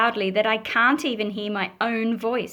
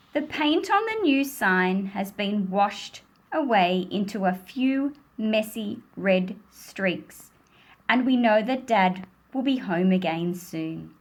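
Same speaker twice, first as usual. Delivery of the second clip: gentle storybook reading; reading to children; 3 semitones lower than usual. A narrator's reading. Teacher reading the rain story to children. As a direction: read it like a picture book to a class. Reading a picture book aloud.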